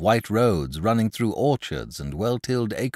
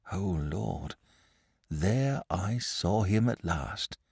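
hushed awe; 4 dB quieter, slower than usual. Acted. Shepherd recalls seeing the dragon.

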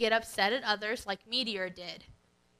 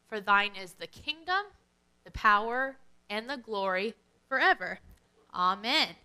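lower, measured recited prayer; Lord's Prayer recitation; 4 semitones lower than usual. Acted. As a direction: recite it like Sunday church, steady and reverent.

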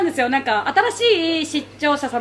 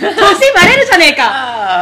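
laughing retort; 2 semitones higher, 8 dB louder, slower than usual. Real, not acted.

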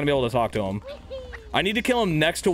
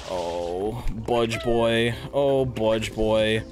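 mock taunt; 3 semitones lower, much slower than usual. Taunting the enemy character.

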